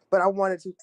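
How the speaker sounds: talking through hiccups; words broken by a hiccup. Real, not acted. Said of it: "excuse me, got the hiccups".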